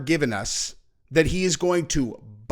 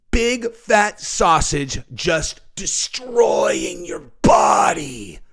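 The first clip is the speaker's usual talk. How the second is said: passionate demo; much slower than usual. Shown as a demonstration. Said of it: "Do it like Nina".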